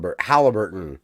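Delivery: HALLIBURTON starting with HAL, A as in cat; short-A pronunciation. Shown as a demonstration. Showing co-host the correct way, clear short A in Halliburton. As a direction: model the HAL sound in Halliburton. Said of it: "the correct way is which one?".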